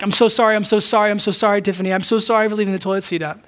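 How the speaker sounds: hammed-up string of gushing apologies; mock groveling, piling up the sorries. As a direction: grovel over and over like a guilty husband. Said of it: "Repentance is not groveling".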